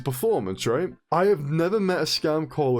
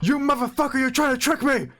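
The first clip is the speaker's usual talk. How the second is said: mock angry caller; 11 semitones higher than usual. Angry caller voiced in phone story.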